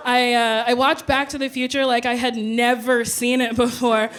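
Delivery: ordinary talk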